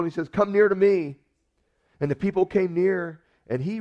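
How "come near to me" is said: loud, higher summons to the crowd; calling out. Retold or imitated. Elijah calling all the people close, loud summons. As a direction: call the people in with authority. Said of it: "Elijah calls all the people".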